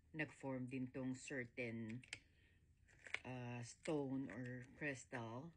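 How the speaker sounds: slow, groggy morning voice; just woke up. Real, not acted. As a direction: talk like you just rolled out of bed. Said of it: "Sorry, kagigising ko lang".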